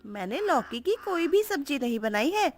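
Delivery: high-pitched coaxing bahu; daughter-in-law voice. Acted. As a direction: coax her mother-in-law in a high young voice. Tuni voiced.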